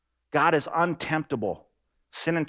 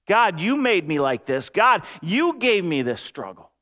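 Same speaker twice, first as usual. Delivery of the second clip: exasperated complaint to God; 2 semitones higher than usual. Pretend. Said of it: "Have you ever found yourself thinking".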